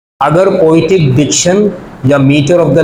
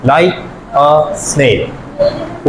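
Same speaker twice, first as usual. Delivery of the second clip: "like a snail" in three separate beats; counting out syllables; 2 semitones lower, 4 dB quieter, much slower than usual. Shown as a demonstration. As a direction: count out "like", "a", "snail" one at a time. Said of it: "कितने syllable होते हैं".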